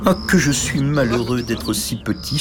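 soupir plaintif à peine marqué; soupir triste. Acted. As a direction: se lamenter en planant. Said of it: "soupirait-il". (léger soupir de tristesse)

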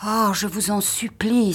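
wife begs husband to hurry; anxious pleading. A narrator's reading. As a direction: beg him urgently not to go. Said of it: "s'écria-t-elle".

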